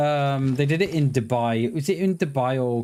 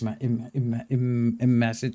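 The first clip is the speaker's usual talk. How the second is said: stumbling over the word; excited stutter on repeated words; 3 semitones lower than usual. Real, not acted. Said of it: "I'm stuttering".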